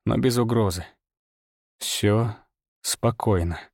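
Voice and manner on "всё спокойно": low steady reassurance; calm and firm, dropping low; low, firm, unthreatening. A narrator's reading. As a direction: settle a wary beast without threat. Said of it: "Мой голос был низким, твёрдым, но без угрозы".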